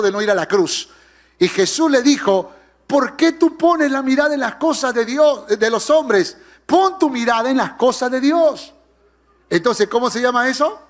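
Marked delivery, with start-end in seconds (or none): 2.9-8.7 raised-pitch, urgent correction of a disciple; acted stern challenge; confrontational rebuke. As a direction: rebuke him head-on, voice lifted. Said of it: "tan confrontativa".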